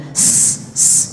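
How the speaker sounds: "s" thin and sharp, the wrong sound. Shown as a demonstration. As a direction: hiss a thin "s" to reject. ("s" tipis yang salah)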